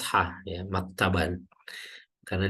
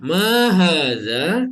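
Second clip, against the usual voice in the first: Ma hadza slow, higher and rising at the end; question intonation; 6 semitones higher, 4 dB louder, much slower than usual. Shown as a demonstration. Teacher models the question for students, slow and rising. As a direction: ask Ma hadza slowly with a rising tune. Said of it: "kata kalimat tanya".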